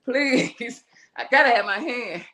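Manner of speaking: high, rushed pleading; patient begging doctors, high and pleading; retold pleading. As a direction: plead with the surgeons to save the hand. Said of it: "I said".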